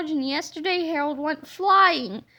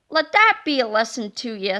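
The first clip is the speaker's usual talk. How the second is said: gallant hero; 2 semitones lower, 6 dB louder than usual. Acted. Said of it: "said Captain Underpants gallantly".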